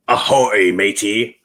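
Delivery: hearty mock pirate call; playful pirate. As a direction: call it out like a pirate, lightly hammed up. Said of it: "like a pirate".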